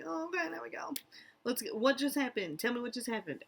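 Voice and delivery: mock waking up and trying to catch up; just woken up. Narcoleptic waking up mid-anime, lightly acted waking confusion. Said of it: "I wake up and I'm like".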